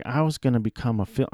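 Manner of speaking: put-on quick, light Southern accent; accidental touch of a Southern accent. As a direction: quote him with a slight Southern twang. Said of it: "I did a Southern accent".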